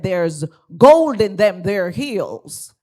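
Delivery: a light Southern drawl on the quote; mock Southern American drawl. Shown as a demonstration. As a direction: say it like a Georgia old-timer. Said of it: "the Southern American drawl".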